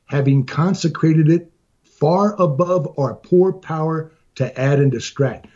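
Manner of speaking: measured, deliberate reading of Lincoln; reading a speech aloud. Real, not acted. Podcaster reading his favorite Gettysburg Address sentences, reading aloud. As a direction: read it out in slow, weighted phrases.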